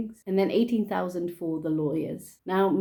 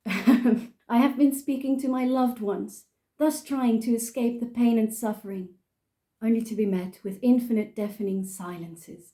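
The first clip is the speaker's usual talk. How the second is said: put-on English-accented poem recital; mock-solemn English-accented reading; 3 semitones higher than usual. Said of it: "I'm gonna do it in an English accent".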